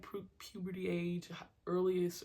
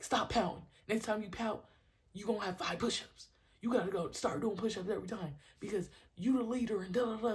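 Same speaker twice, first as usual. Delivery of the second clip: raised, insistent telling-off; scolding coach; 4 semitones higher, 4 dB louder than usual. Retold or imitated. Coach warning a pouting kid, scolding. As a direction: lay down the consequence.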